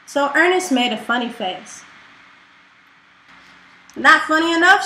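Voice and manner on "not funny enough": loud snarling dragon head. Acted. Snaggle snarls at the jester's funny face, loud and scornful. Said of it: "snarled Snaggle".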